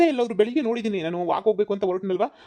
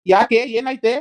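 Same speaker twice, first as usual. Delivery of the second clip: startled shout; 5 semitones higher, 8 dB louder, slower than usual. Acted. Husband startled by wife's cry.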